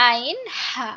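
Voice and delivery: আইন, হা from a very tight throat with a rasp; squeezed, rasping pronunciation. Shown as a demonstration. Teacher models the letters for students, tight rasping আইন, হা. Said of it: "খুবই গলা চেপে ফ্যাঁস ফ্যাঁস আওয়াজে".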